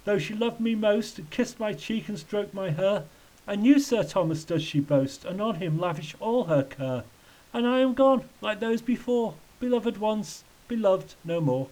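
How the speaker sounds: high-pitched rhyming lament; lightly acted wail in verse. A narrator's reading. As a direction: recite the loss in a high, plaintive voice. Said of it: "Thomas wailed".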